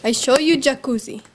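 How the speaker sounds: put-on Arab accent, playful host. Vlogger presenting the jacuzzi to viewers, mock Arab accent. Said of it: "I should do my Arab accent".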